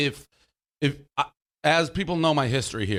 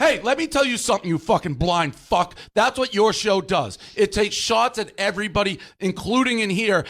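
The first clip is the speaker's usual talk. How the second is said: heated tirade; 2 semitones higher than usual. Real, not acted. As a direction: lean into him, spelling it out. The speaker berating Mike, heated argument.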